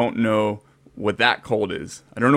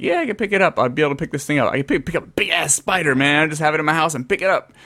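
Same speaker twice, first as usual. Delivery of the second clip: higher-pitched, cocky acted-out confidence; retold eager boast; 4 semitones higher, faster than usual. Retelling himself at the pet store, eagerly boastful. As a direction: play your younger self bragging. Acting out his younger boasting self.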